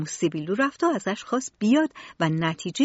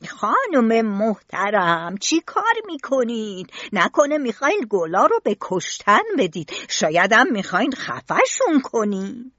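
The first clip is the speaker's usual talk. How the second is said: mildly reproachful questions, stressed words punched louder; gardener figure, scolding; 4 dB louder than usual. Acted. Questioning a lady over the flowers, mildly scolding.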